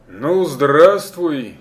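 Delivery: loud, slow hearty greeting; exclaiming. Acted. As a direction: call out a big welcome. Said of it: "воскликнул дух-огонь".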